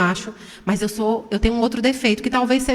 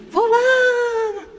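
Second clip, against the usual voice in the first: high, drawn-out shout of a name; calling shout; 11 semitones higher, much slower than usual. Retold or imitated. Mother retelling how she yelled for her son, drawn-out shout. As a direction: yell the name across the house. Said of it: "eu gritei com ele".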